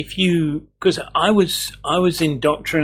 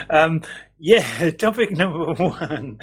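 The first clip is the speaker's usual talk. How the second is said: coughing through laughter; real laughing fit; 3 semitones higher than usual. Real, not acted. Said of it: "I'm coughing, coughing 'cause I'm laughing".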